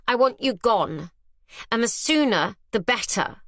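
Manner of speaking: firm, lightly acted telling-off; scolding a child. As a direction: speak down to the wife as to a naughty child. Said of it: "as if she's speaking to a disobedient child".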